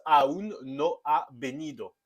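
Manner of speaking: "aún no ha venido" with "aún" stressed on the ú; Spanish example sentence. Shown as a demonstration. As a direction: say the Spanish line crisply, stress on ú. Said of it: "dans la phrase".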